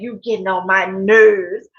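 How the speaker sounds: mock grumble, slow and rising at the close; mimicked catchphrase. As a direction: drag it out low with a rise at the end. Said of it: "with his New York accent".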